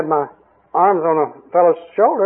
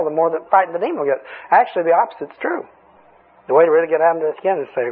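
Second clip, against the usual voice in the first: ordinary talk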